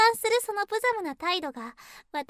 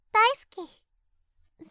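long, stretched, louder and higher sweet 大好き; drawn-out sweet; 4 semitones higher, 6 dB louder, much slower than usual. Acted. Sister cooing at her brother, drawn-out sweet. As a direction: stretch it out, sugary and teasing.

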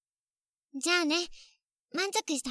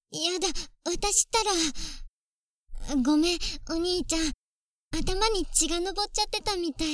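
flustered apology; 3 semitones higher than usual. Acted.

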